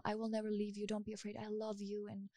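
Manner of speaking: soft, gentle words to a sleeping partner; tender reassurance. Shown as a demonstration. Demonstrating what to tell a sleeping partner, softly tender. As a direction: murmur it softly, as if they're asleep beside you. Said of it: "tell them".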